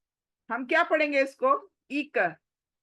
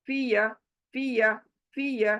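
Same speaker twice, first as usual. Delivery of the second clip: quick short fiya. Shown as a demonstration. Teacher demonstrating a short quick फिया. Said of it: "जल्दी से".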